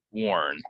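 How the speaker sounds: "warn" said WORN; rounded or in "warn"; or vowel. Shown as a demonstration. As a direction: model "warn" to rhyme with born. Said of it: "it's or".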